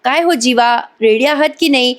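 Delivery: lightly acted yell to a husband; mild mock shout. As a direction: call out without really shouting. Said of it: "मोठ्याने ओरडते".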